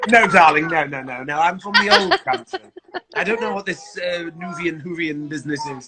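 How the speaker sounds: amused, laughing through the words; a laughing mock-posh brush-off; laughing retold reply. Retelling the Whovian mix-up to the audience, laughing. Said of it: "I was like".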